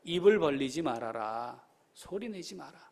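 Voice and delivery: subdued, secretive instruction; hushed command. Acted. Same order repeated in hushed voice.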